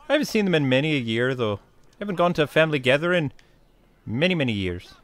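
lightly put-on Irish accent; Irish cousins' accent. Recalling family gatherings, imitated Irish accent. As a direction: keep up a light Irish lilt. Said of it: "cousins that speak like this".

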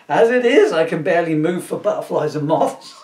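laughing villain. Acted. Electric villain laughing at himself.

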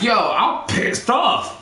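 slow, mildly exasperated retelling; retold annoyance. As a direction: replay being pissed off, stretching the words. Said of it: "you pissed me off".

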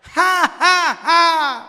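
very slow ha ha ha, high and ringing; slow three-beat laugh. Shown as a demonstration. Teacher showing the three-beat laugh, slow ringing. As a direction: stretch each ha out evenly. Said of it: "ví dụ như ha ha".

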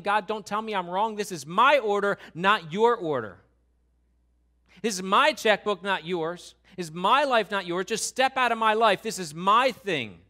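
loud, insistent my-my-my protest; defiant Cain. Acted. Cain shouting back at God over his own life, defiant. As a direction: stake your claim, punch every my. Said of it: "getting angry with God".

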